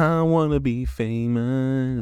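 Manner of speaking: put-on a kid pleading with mom, slow whiny voice. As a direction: drag it out like a sulking teen. Repeats the whiny kid line.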